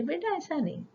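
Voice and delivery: gentle mother's correction, soft and high; mother gently correcting her small child; lovingly. Retold or imitated. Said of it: "प्यार से बोलती है".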